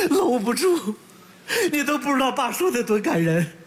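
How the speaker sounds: tearful, can't hold it in; crying, moved. Acted. In-law moved by Dad's words, tearful. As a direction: let the tears colour the words. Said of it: "你别哭了".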